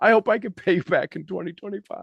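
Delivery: heartfelt, overcome with feeling, voice lifting high. Thanking someone for bringing value to their family, getting emotional. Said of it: "I'm getting emotional".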